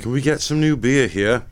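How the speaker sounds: put-on English accent, trying out a character voice. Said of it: "why I'm doing an English accent".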